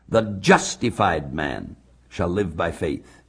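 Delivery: weight up front on "justified man"; stress on JUSTIFIED MAN. Shown as a demonstration. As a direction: lean on "justified man", let the rest drop away. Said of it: "the emphasis is on the man".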